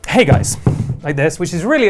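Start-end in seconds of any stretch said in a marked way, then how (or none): 0.1-0.6 fake casual greeting. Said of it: "pretending to put their phone down".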